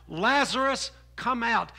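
loud calling out of a name; mild echo of the loud call. Retold or imitated. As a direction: summon him from the tomb. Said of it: "they all heard the name called out".

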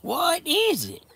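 a slow, high coo to a goat; cooing to pet. Real, not acted.

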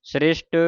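ਸ੍ਰਿਸ਼ਟ with the half r joined to the s; careful pronunciation. Shown as a demonstration. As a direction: blend "sr" at the start of ਸ੍ਰਿਸ਼ਟ. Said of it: "ਅੱਧਾ ਰਾਰਾ ਲੱਗਾ ਹੈ".

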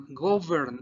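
"govern" with its V sounded; pronounced V. Shown as a demonstration. Teacher reminds students of the B chica, V sounded in "govern". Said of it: "pronunciar su B chica".

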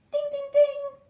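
high, loud ding ding ding; bell ringing. Acted. Narrator imitating the school bell, high and loud. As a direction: ring it out like a bell.

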